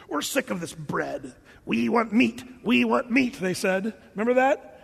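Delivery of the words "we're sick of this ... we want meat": fed-up grumble rising into a demand; mock the griping crowd; acted complaint. Preacher voicing Israelites tired of bread, acted complaining. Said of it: "the children of Israel said".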